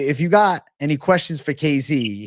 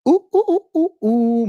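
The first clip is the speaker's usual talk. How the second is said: hype hoots; 5 dB louder than usual. Acted. Hyping members stream.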